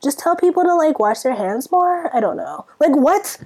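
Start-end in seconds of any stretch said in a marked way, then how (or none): 0.0-2.1 mock careless minister. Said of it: "and you're just like".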